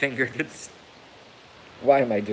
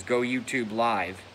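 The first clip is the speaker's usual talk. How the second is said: mock robot voice; 4 dB quieter than usual. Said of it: "a button that says".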